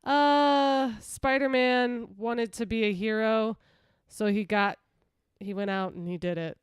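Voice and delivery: level, halting retelling with little excitement; unenthused recap. Retold or imitated. Host showing how little the movie gave to retell, unenthused. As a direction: drag out a recap you can't get excited about. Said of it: "this one I'm just like".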